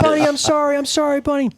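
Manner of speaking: very high, loud imitation of wife; mock tearful pleading. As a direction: plead like a crying wife, hammed-up. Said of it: "And she's crying".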